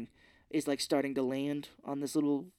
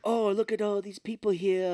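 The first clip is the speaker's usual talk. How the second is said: higher, louder put-on villain; hammed-up theatrical relish; mock gloating villain; 6 semitones higher, 5 dB louder than usual. Recapper voicing villain surveying captives, mock gloating.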